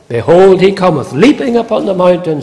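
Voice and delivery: mildly excited scripture quote; excited exclamation. Retold or imitated. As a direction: retell her excitement with emphasis. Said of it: "She is excited".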